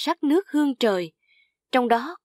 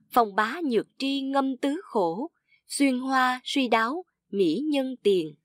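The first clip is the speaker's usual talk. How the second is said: measured classical poem reading; poem recitation. A narrator's reading. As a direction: recite the verse slightly raised, lingering on phrases.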